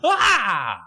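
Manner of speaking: high, hammed-up panicked kid shriek; a boy freaking out over a monster, in a high yelp; mock panic. Jordan sees a monster on the runway, squealing in mock terror. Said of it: "But he's like".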